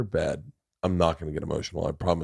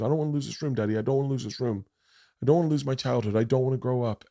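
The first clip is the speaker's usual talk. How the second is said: put-on higher, gently pleading child; retold crying child; 4 semitones higher, much faster than usual. Dad imitating his daughter begging to keep her room, mildly tearful. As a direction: lightly voice a tearful, repeated plea. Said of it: "she starts fucking crying".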